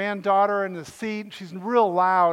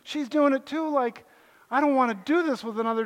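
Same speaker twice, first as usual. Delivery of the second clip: exasperated; 5 semitones higher than usual. Retold or imitated. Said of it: "I was like".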